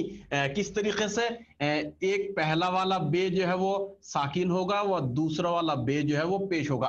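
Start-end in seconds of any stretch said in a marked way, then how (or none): none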